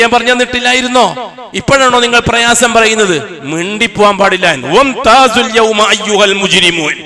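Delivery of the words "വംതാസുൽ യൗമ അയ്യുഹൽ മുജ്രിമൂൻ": slow, melodic Quran chant; Quranic recitation. Acted. Preacher reciting the verse to the congregation, chanted. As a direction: draw each Arabic word out in tajweed.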